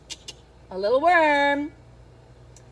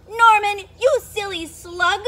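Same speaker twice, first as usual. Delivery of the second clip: louder, higher scolding cry; 5 semitones higher, 3 dB louder than usual. Acted. Snails scolding Norman for wrecking their pyramid, crying out. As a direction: cry out at the clumsy slug. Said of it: "they cried".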